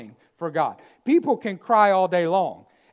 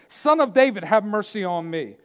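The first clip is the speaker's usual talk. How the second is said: mild retold plea, raised at the start; retold crying out. Blind man crying out to Jesus, mildly voiced plea. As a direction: call out for mercy, easing off. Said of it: "he cried out all the more".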